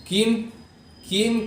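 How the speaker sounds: thin "keem" for کیم; kaaf misreading. Shown as a demonstration. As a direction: say کیم lightly from the front. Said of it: "کاف پڑھ لیتے ہیں".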